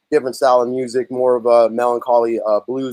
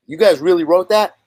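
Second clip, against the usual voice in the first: higher-pitched incredulous question; retold disbelief; 5 semitones higher, 3 dB louder than usual. Producer doubting the band wrote their song, retold disbelief. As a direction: question it in mild mock disbelief.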